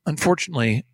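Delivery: hushed, mock-grave newsreader dropping to a breath; near-whispered solemn news line; fake sentimental anchor. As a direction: somber fake-sympathy announcement. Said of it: "The news guy goes".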